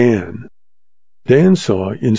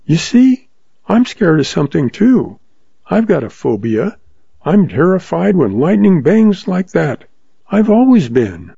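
frightened June; 6 semitones higher than usual. Acted.

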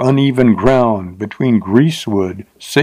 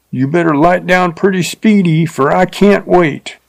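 higher, leering coarse frontier voice; leering rider; 6 semitones higher than usual. A narrator's reading. Rider leers at the stuck-up teacher, coarse voice. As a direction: sneer it like a crude drifter.

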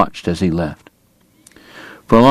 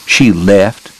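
snapped; 4 dB louder than usual. Acted. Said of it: "Doc snapped".

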